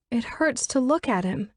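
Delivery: high pleading female voice; distraught young woman. Acted. Elizabeth pleads with the absent Pike, high and distraught. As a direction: beg an unseen friend for help.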